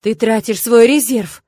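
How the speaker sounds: a horrified, slow cry. A narrator's reading. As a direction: gasp it out in horror. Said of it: "Арман ужаснулся так". (испуганный возглас)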